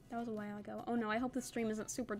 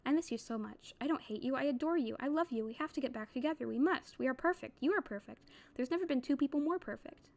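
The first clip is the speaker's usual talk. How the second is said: steady, measured reading of a novel; story narration. A narrator's reading. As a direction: read the passage like an audiobook narrator. Reads novel aloud on stream.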